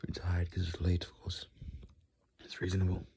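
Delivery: sleepy hushed murmur; tired whisper. Real, not acted. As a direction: whisper it, worn out from the late hour. Late night, sleepy aside.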